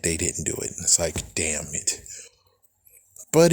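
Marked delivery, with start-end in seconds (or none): 1.3-2.0 breathy whispered damn it under the breath; soft unvoiced swear; whispered curse. Real, not acted. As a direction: hiss it to yourself, defeated. Muttered frustration at omission.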